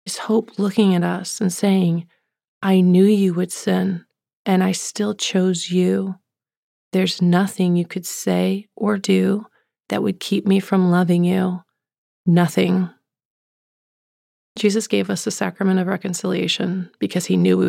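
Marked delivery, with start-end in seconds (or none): 2.6-12.9 slow, sincere reassurance; measured, deliberate promise of love; loving assurance. Retold or imitated. Jesus assuring sinners they are still chosen, loving. Voices Jesus' hope speaking to us.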